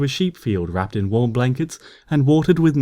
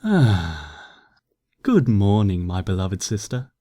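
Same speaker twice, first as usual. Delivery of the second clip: contented stretch; 3 semitones lower, slower than usual. A narrator's reading. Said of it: "luxurious but regal grunt of pleasure".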